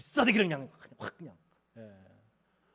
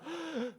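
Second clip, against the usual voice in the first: a sharp high gasp, then quiet; mock gasp of regret; 10 semitones higher, 7 dB quieter than usual. Preacher acting out Russia's regret, a sudden gasp. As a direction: gasp like someone who sold too cheap.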